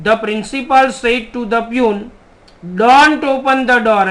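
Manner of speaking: very slow, word by word dictation. Shown as a demonstration. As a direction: spell the sentence out slowly for the class. Teacher reads the negative example. (ધીમે ધીમે લખાવવું)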